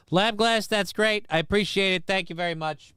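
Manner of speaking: high, syrupy overdone gratitude; mock gushing thanks. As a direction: gush thanks in a put-on high voice.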